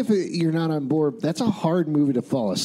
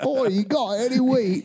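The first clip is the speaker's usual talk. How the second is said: put-on old-timey townsperson; 5 semitones higher than usual. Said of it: "A lot of townspeople interrupted us".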